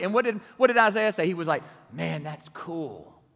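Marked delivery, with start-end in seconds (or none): 1.9-3.2 lazy, slow, unimpressed drawl; mock casual. Preacher mocking a wrong Isaiah, slow casual. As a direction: shrug it off like a bored teen. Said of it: "He did not say that".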